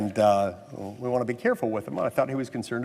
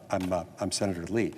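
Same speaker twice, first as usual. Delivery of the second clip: softer, low mumbled self-introduction; 5 semitones lower, 5 dB quieter than usual. Retold or imitated. Senator to guard, reluctant mumble. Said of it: "I kind of mumbled the answer".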